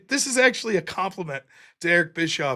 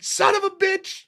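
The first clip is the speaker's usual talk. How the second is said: laughing curse; 11 semitones higher than usual. Retold or imitated. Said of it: "Just like".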